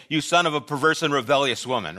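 quick, amused throwaway of the curse; wry mock curse. Preacher mocking the stiff curse to his congregation, amused. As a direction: toss it off as absurdly formal. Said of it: "which of you ... are gonna say".

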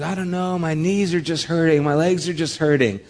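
mild mock whine of an aching kid.

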